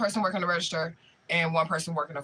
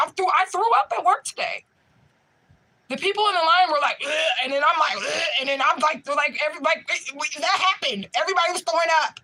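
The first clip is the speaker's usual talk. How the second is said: high and loud through giggles; can barely get it out for laughing; laughing hysterically; 9 semitones higher, 4 dB louder than usual. Real, not acted. Laughing while recounting vomiting at work.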